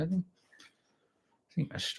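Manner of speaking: half-swallow the words, not sure at all; a hint of timid uncertainty; hesitant, unsure. Retelling his own unsure answer.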